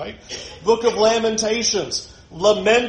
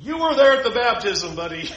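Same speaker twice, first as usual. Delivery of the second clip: sarcastic; 2 semitones higher, 3 dB louder than usual. Pretend. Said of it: "Jesus is not sarcastic like I would be".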